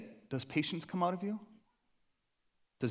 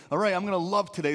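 forced resolve; 4 semitones higher, 7 dB louder, faster than usual. Pretend. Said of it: "we just can't say".

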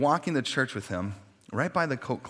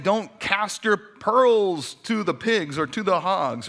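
quoting Jesus; 6 semitones higher, 5 dB louder, slower than usual. Retold or imitated. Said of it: "He starts saying".

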